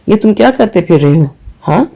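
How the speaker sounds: a touch of anger, pitch pushed up; angry. Acted. Friend Ali confronting Hassan over phone, mildly angry. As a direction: scold him, rising on the question. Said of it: "علی غصے سے بولا".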